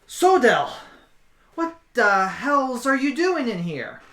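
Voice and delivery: loud, high, incredulous challenge; acted shocked demand. Woman finds a dwarf hiding in her closet, acted shocked demand. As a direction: call out the name, then demand an explanation.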